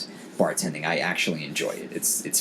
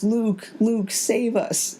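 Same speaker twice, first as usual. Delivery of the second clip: higher, slow, imploring little voice; pleading child; 13 semitones higher, much slower than usual. Retold or imitated. Nephew begging Luke to save them, slow high plea. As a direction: beg like a kid praying to a hero. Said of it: "he goes".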